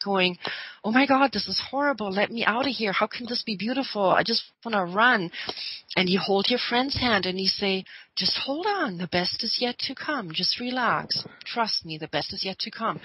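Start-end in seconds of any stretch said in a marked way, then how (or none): 0.8-5.3 lightly acted panic, words tumbling out; mock freak-out. Friend at the chaotic concert wants out, mildly freaking out. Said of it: "your friend is freaking out". 8.2-13.0 calming reassurance. Retold or imitated. Holding a frightened friend's hand, calming them down. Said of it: "you calm your friend down".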